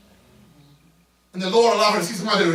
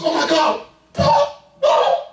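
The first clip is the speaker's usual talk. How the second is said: high rising cry of Papa; overwhelmed cry; 8 semitones higher than usual. Retold or imitated. Housekeeper overcome at the sight of the wife, high crying call. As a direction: break upward into a tearful Papa.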